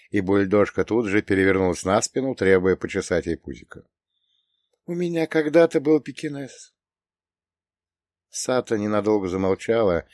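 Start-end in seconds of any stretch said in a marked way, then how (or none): 4.9-6.7 put-on high-pitched old woman's voice; растроганная старушка. A narrator's reading. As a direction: reminisce fondly in a high old lady voice. Old woman recalls her own dog. (высокий голос растроганной старушки)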